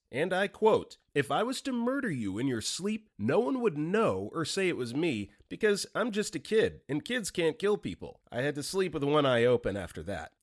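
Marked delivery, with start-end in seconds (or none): 1.2-8.2 put-on deadpan kid voice. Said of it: "with a dead straight face".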